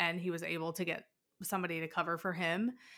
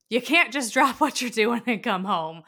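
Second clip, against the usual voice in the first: laughing; 5 semitones higher, 10 dB louder than usual. Real, not acted. Laughing exasperation over recruiting duty.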